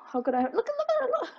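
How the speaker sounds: high, rapid, breaking into laughter; words tumbling out through loud giggles; laughing. Real, not acted. Gamer pointing out the iron golems, laughing helplessly.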